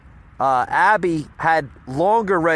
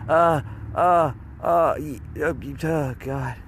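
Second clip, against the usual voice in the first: mock out of breath. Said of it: "Sounds like she's out of breath".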